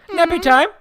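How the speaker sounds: put-on very high, loud playful baby call; mock baby call. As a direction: announce it like a gleeful baby. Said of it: "a little, like".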